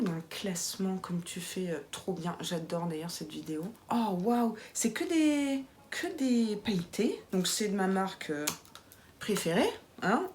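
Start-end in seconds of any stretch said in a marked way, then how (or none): 3.9-7.2 excited. Real, not acted. Discovering palette.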